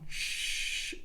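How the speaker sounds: "sh" held on flowing air; sustained sh. Shown as a demonstration. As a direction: stretch "sh" as a steady hiss. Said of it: "a sound that you can sustain".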